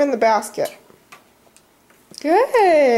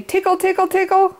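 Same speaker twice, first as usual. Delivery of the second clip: sing-song, slightly higher; playful toddler talk; 5 semitones higher, faster than usual. Shown as a demonstration. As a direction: coax a baby to repeat. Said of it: "can you say".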